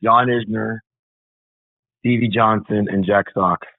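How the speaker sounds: lightly put-on Latin voice; playful Latin-accented roll call. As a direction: roll out the names with a Latin flavor. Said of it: "say it in my Latin voice".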